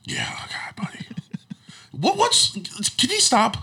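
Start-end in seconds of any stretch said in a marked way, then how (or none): 1.9-3.6 laughing disbelief. Real, not acted. Reacting to friend's mention of a singer.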